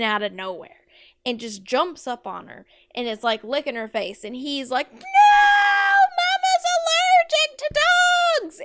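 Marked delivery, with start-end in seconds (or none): 4.9-8.6 loud high-pitched freak-out; panicked shout. Acted. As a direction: scream it in hammed-up panic. Son freaks out in story.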